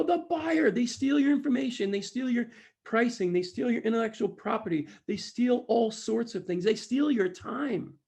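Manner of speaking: high, loud chanted list of complaints; imitated crowd shout. Audience answering the speaker, loudly shouted. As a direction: call it out like an indignant audience.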